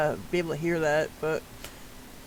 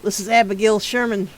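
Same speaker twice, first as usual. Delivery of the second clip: louder, firm announcement; character introduction; 2 semitones higher, 5 dB louder than usual. Acted. Game character loudly presenting the eyewitness to the detective. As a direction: present the witness with authority.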